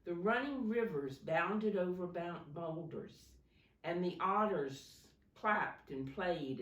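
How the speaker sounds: storybook read-aloud to a class; gentle classroom story reading; reading to children. Acted. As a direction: read it like a picture book for little kids.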